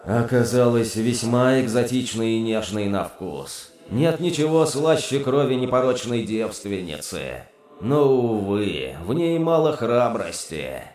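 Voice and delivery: lightly voiced dreamy demon. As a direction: savour it, almost dreamy. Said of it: "Голос демона стал почти мечтательным".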